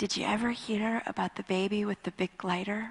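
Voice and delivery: easy, mild, soft way of speaking. Retelling a phone call with a friend, CJ, answering in his gentle voice. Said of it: "In his gentle voice".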